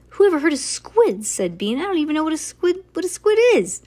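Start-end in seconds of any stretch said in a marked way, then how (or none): 0.1-1.3 loud, high indignant outburst; exasperated child's protest. A narrator's reading. Bean complains about squid role. 1.8-3.8 high, rising to a loud finish; worked-up child's protest; exasperated. A narrator's reading. Bean complains about squid role.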